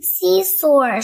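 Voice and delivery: put-on loud eager toddler shout. George answering Mummy Pig, an eager shout. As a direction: call it out excitedly. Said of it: "shouts George".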